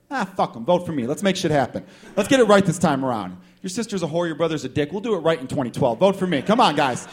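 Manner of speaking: lightly acted campaign rally; rally the crowd for votes; mock politician's punchy pitch; candidate rallying voters. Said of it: "guy or girl at the podium".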